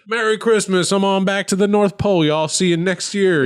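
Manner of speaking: a hint of a jolly Santa signing off; jolly Santa goodbye. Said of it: "And he's like".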